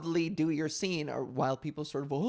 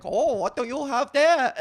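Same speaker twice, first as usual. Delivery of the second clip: put-on character voice; 8 semitones higher, 8 dB louder than usual. Actor's put-on character voice at tables.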